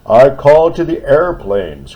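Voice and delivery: high, loud urgent cry. Acted. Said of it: "cried the bridge".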